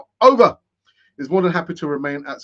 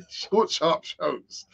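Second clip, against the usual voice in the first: laughing; much slower than usual. Real, not acted. Repeats phrase, laughing through it.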